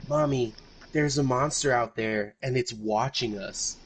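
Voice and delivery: lightly voiced frightened little girl; a hint of a scared kid whispering to mom. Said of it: "she goes".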